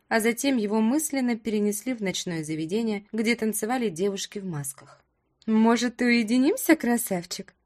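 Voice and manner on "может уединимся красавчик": distant flashback echo. Acted. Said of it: "С эхом прозвучал в голове бархатный голос брюнетки".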